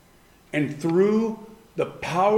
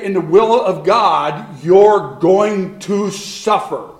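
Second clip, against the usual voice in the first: voice of God; 6 dB louder, slower than usual. Retold or imitated. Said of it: "But he's gonna say".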